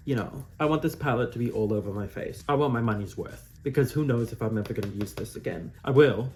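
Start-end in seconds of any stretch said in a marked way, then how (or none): 5.8-6.3 louder, emphatic promise; loud insistence. Real, not acted. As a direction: firmly insist you will. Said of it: "Mom, if you're watching".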